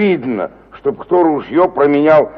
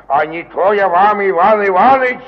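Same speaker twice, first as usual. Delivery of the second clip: climbing higher and louder; rising threat; 4 semitones higher, 4 dB louder than usual. Acted. Ivan Nikiforovich threatening his neighbour, rising higher and louder. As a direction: build to the threat of a beating.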